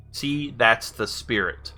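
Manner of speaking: slow, evenly spaced words; careful command. Real, not acted. Player retrying a voice command, slow and careful. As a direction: say it slowly for a machine to catch.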